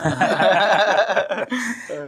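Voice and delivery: a long, high burst of real laughter; hearty laugh. Real, not acted. Pastor laughing at his daughter's teasing, hearty laugh. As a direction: laugh it off, amused at yourself.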